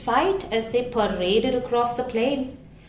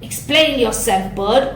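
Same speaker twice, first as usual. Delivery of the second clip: squeaking crowd; 7 dB louder than usual. Acted. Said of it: "the others squeaked and chattered".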